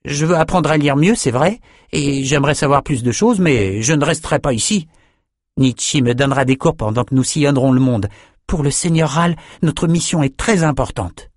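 voix de fillette un peu plus aiguë, hésitante puis décidée; petite fille polie. Acted. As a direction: une enfant qui refuse gentiment. Chardon refuse de rester. (fillette qui décline poliment le cadeau)

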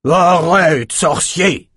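plus aigu et plus fort, ordre sec; cri d'ordre. A narrator's reading. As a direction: crie pour arrêter le sorcier net. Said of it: "cria Enoch". (Enoch dressé sur ses étriers, crie un ordre)

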